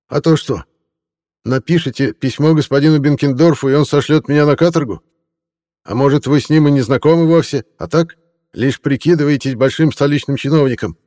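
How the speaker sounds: high, fawning tipsy reporter voice; a drunk hack laying on the flattery, pitched high. Acted. Reporter taunts inspector.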